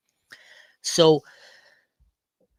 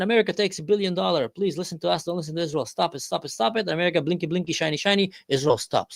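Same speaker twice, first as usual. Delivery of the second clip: higher, fast mock wheedling; Saudi Arabia pleading; 5 semitones higher, faster than usual. Saudi Arabia lobbying America, higher fast mock wheedle. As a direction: coax America and scold Israel quickly. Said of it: "Saudi Arabia jumps in".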